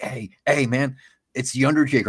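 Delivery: whispering, slowed down. Retelling spotting a man in a bar and telling a friend: retelling a whisper. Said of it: "I was whispering to my friend".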